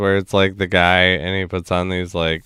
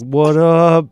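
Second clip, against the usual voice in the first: mock greeting; 9 semitones higher, 5 dB louder than usual. Mocking bragging Harvard grad.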